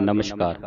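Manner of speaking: "ਨਮਸਕਾਰ" softly as namash-kaar; wrong sh sound. Retold or imitated. Teacher quoting congregations' misreading, "ਨਮਸਕਾਰ" with sh. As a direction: say "ਨਮਸਕਾਰ" with sh before k. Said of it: "ਉਹ ਨਮਸਕਾਰ ਪੜ੍ਹਦੀਆਂ".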